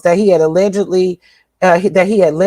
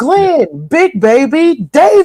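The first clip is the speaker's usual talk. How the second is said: very slow, drawn-out, swooping arena announcer call; 8 semitones higher than usual. Repeating a player's name as the announcers said it: imitating the announcer calling a name. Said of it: "saying it like they said it on the announcer".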